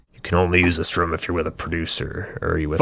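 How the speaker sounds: fast, flat automated recital; stern monotone. Acted. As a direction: recite it like a recorded message. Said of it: "Earl recites in a stern yet monotone voice".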